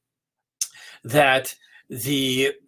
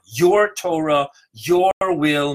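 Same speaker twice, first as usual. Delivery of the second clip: your slow and louder, falling on Torah; stress on your; 4 dB louder, slower than usual. Shown as a demonstration. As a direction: hit your hard, then Torah and will. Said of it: "Now I emphasize the word your".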